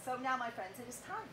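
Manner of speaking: hushed dramatic build-up. Acted. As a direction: quietly summon the crowd.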